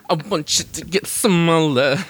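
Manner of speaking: slow, lightly voiced rock-star croon; a hint of a slow, dreamy rock star; a singer's voice. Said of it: "like a singer asked him".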